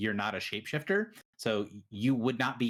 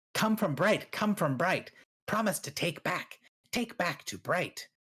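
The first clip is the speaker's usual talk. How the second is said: high, screeching beast voice speaking in scraps; 6 semitones higher than usual. Voicing a creature as it answers a question, in a creature voice. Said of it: "and then it says".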